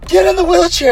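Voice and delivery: loud, high imitation of a medic's order; high, forceful retold command; mock command. Retelling medics ordering him.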